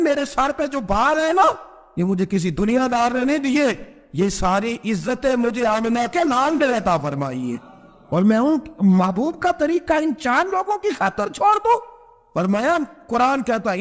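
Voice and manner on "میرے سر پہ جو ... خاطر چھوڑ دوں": high, commanding retold anger; majestic wrath. Umar, bareheaded, tells his servant where his honour comes from, in high majestic wrath. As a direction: speak with the weight of a ruler's wrath. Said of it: "حضرت عمر نے جلال میں".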